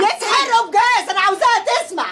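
defiant angry retort. Real, not acted. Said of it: "وطي صوتك".

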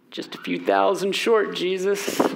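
dry, sarcastic jab at the boss; mock the impossible order with dry sarcasm. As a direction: disciples answering Jesus with dry sarcasm. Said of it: "Kind of feel the sarcasm there".

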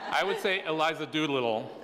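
"Eliza Doolittle" said in a playful American accent, with a laugh; laughing, give "Eliza Doolittle" a broad American sound. Shown as a demonstration. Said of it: "in a mer-, very American way".

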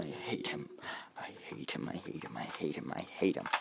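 hushed repeated grumbling under breath; muttered hate. Real, not acted. Teen grumbling about his little cousin, hushed seething.

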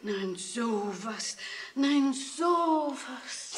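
very slow stunned murmur; slow amazement. Acted. Grandmother hears the thousand marks, slow stunned wonder. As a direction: marvel quietly, drawing it out.

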